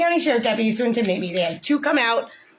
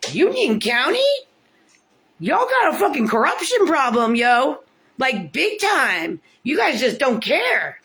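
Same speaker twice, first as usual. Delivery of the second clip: angry rant; 5 semitones higher, slower than usual. Real, not acted. Ranting at Union County.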